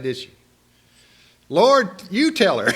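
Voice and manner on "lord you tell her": high, loud, exasperated mock demand; Martha's appeal. Martha appeals to the Lord about Mary, exasperated. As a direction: plead with the Lord to sort her sister out. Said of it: "She didn't say that".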